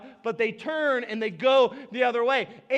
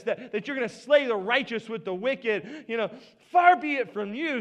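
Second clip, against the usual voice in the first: pleading persuasion. Retold or imitated. Abraham pressing God to spare the city, insistent plea. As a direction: push God to agree, insisting. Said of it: "trying to manipulate God".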